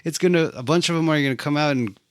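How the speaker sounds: high, fast alarmed cry; alarmed yelp. Retold or imitated. Viewer reacting to a scarab, a high fast panicked cry. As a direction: blurt it out in a panic.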